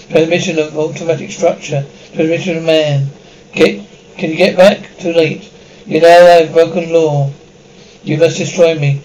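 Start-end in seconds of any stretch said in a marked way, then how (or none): 5.9-9.0 otherworldly voice, louder; alien voice. Acted. Alien using the brother's body, eerie voice. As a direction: speak as something not human.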